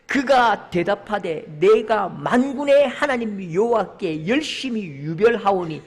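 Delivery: slow, solemn declaiming; measured, emphatic Bible reading; scripture reading. Acted. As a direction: lead the congregation through the verse, slowly.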